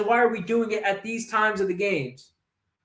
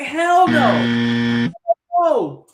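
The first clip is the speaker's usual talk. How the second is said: sudden low, loud shout; angry shout; 7 semitones lower, 5 dB louder, much slower than usual. Real, not acted. Fan shouting his verdict on the coach, low and loud. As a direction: bark a furious refusal. Ranting about coach decision.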